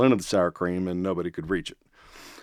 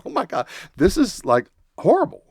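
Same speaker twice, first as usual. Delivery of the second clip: inner panic; 10 semitones higher than usual. Retold or imitated. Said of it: "I'm thinking".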